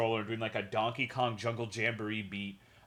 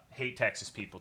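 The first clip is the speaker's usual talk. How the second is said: ordinary talk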